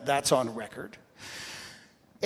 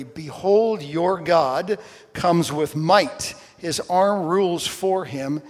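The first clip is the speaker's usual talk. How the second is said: louder, slow, booming proclamation of power; mighty proclamation; 3 semitones higher, 6 dB louder, slower than usual. Acted. Preacher reading Isaiah to the congregation, slow and booming. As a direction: announce God's might with full force.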